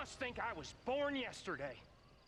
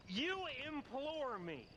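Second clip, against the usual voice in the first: scornful echo; 3 semitones higher than usual. Acted. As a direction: savour the mockery, leaning on "you". Mocking John's fancy word.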